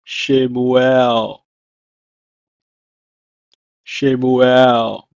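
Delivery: Shemuel said "sheh-moo-el" twice; "Shemuel" said twice, falling; Hebrew word. Shown as a demonstration. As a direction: model "Shemuel" then repeat. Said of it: "It's pronounced in Hebrew as".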